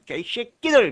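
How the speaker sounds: 개쉐끼들 with a tense, hard "kki"; strong pronunciation. Shown as a demonstration. Teacher repeating the mnemonic to students, strong pronunciation of 개쉐끼들. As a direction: say 개쉐끼들 as a curse-like "gae-shwe-kki-deul". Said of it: "발음을 강하게 하면".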